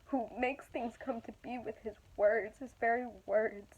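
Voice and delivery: choking up with emotion; emotional. Real, not acted. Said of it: "I'm so emotional".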